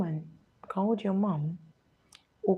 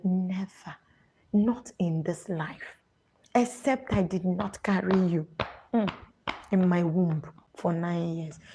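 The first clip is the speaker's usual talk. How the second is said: Nigerian mother. Retold or imitated. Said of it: "The woman may be like".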